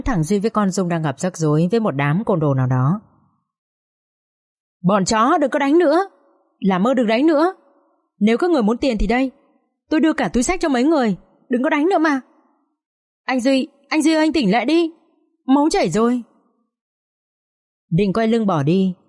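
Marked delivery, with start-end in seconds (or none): 4.8-16.2 high, frantic begging, rushing the words; desperate pleading. A narrator's reading. Girl begging the thugs to stop hitting her boyfriend, frantic high pleading. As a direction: beg them to stop, voice climbing in panic.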